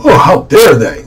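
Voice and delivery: slow, drawn-out affronted cry; hammed-up how-dare-they gasp; mock indignation. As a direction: play offended, stretching the words. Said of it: "acting all foolish, acting all".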